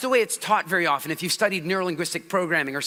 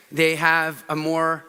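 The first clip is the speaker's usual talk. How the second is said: slowed, even, steady delivery; calm auditory speaker demo; 4 semitones lower, slower than usual. Shown as a demonstration. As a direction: stretch it out evenly. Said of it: "They talk with a predictable cadence".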